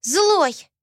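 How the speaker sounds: put-on high, loud childish accusation; a small girl spitting it out; angry little girl. Asiya at her father, angry child voice. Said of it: "сказала Асия".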